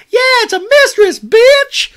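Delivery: put-on very high, loud, strained baby squeal; baby Lala squeak. Recapping the show, voicing baby Lala in a shrill squeal. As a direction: shriek it like a tiny toddler.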